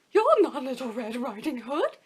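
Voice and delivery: slow, loud alarmed accusation; shocked exclamation. Acted. Granny discovers the wolf, slow and shocked. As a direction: gasp it out in shock. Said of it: "exclaimed Granny".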